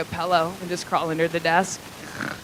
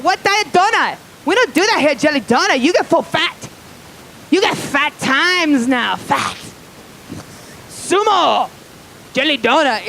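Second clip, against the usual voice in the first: put-on high, loud, indignant Asian-accented clerk; mock Asian accent; 7 semitones higher, 3 dB louder than usual. Clerk rejecting a diet donut request, loud mock Asian accent. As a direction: berate the customer in caricatured Asian accent. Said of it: "this is how they talk".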